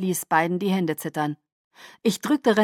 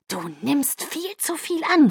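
langsam, höher, gefaucht; 8 semitones higher than usual. Acted. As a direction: fauch ihn an. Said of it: "fauchte ich". (Bella faucht Jacob wütend an)

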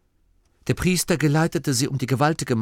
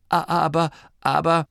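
higher, faltering protest; near tears; 7 semitones higher, 3 dB louder than usual. A narrator's reading. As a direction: stammer as if close to tears. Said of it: "Der Priester war den Tränen nahe". (den Tränen nahe, stockend)

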